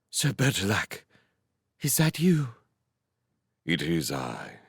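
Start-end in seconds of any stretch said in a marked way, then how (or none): 0.1-2.4 husky, trembling, high-pitched voice. A woman in a story answers a man calling to her: husky, tremulous voice. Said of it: "In a husky, tremulous voice, she answered".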